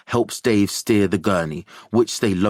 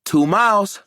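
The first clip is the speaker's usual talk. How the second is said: bright raised hopeful voice; 11 semitones higher, 4 dB louder than usual. A narrator's reading. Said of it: "Mateo says hopefully".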